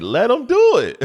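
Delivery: imitating son. Son voiced in story.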